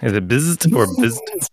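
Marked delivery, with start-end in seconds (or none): 0.3-0.8 first try at a drawn-out buzz; sustained imitated buzz; buzz noise. Shown as a demonstration. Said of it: "how many Z's you need". 0.9-1.5 higher-pitched drawn-out buzz; high questioning zap; alternative buzz noise. Shown as a demonstration. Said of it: "how many Z's you need".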